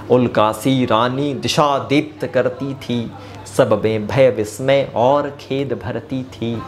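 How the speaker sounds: slow, measured verse recital; poem recitation. Acted.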